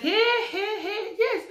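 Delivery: high laughing hey hey; mock the teasing cheer with a laugh; laughing playful call. People teasing her pregnancy.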